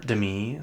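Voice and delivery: "Demi" stressed on the second syllable; pretentious pronunciation. Shown as a demonstration. Correcting how a celebrity's name is said, pretentious pronunciation. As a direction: say "Demi" as duh-MEE, stress at the end. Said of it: "it sounds pretentious when you say it like that".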